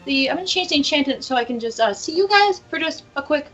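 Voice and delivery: flustered high agent voice. Acted. Stacy flustered.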